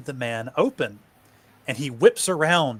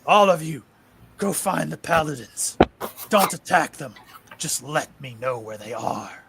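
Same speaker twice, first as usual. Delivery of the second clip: commanding; 2 semitones higher than usual. Acted. Mark commands the zombies.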